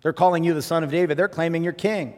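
high, loud indignant demand; angry demand. Retold or imitated. Pharisees demanding Jesus silence the crowd, high and loud angry demand. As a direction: bark it like an outraged priest. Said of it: "they demanded".

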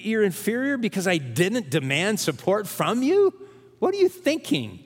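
Paul scolding the Corinthians in disbelief; incredulous Paul. Retold or imitated. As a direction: ask it like Paul can't believe them. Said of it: "Paul is saying".

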